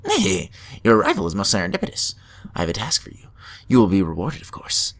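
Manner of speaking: fast, lightly voiced mad scientist. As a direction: rattle it off like an eager doctor. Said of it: "Should I give him a voice?".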